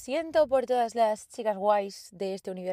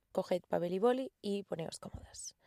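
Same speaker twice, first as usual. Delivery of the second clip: whispering; 6 dB quieter than usual. Real, not acted. Confiding secrets to listeners.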